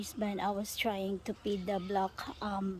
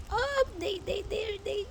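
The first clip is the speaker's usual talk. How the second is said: excited; 11 semitones higher than usual. Real, not acted. Excited about the chase.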